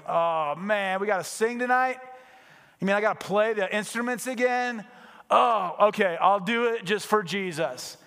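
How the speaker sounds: hammed-up reluctant moan; mock reluctant whining. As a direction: sigh it out like a reluctant volunteer. Worship team member moaning mock.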